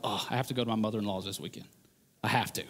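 fast, low, soft whining to a buddy; grudging complaint. Retold or imitated. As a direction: grumble it like a dreaded chore. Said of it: "talk to our buddies and be like".

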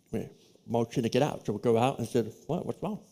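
soft, near-whispered retelling; hushed whisper. Retold or imitated. Telling his friend to slip out, hushed whisper. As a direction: keep it hushed so the professor won't hear. Sneaking out past the professor.

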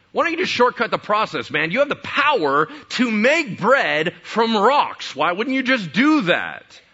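loud, high, coaxing tempter; tempting Satan. Retold or imitated. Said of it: "the Satan comes up to him and starts tempting him".

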